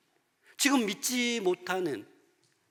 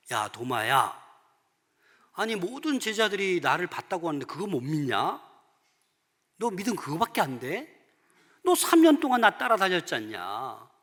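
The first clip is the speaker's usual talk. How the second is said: mild mock scolding, louder at the end; acted reproach, building to a raised last question; imagined rebuke; 3 dB louder than usual. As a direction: take Thomas to task in disbelief. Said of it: "라고 책망할 수도 있어요".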